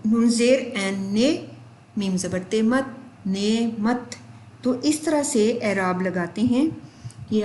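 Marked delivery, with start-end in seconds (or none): 0.1-4.2 بشر built up as بے زبر، شر, slowly; spelling out syllables. Shown as a demonstration. Teacher explaining بشر aloud to students, syllable by syllable. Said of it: "میں آپ کو زبانی بتاتی ہوں".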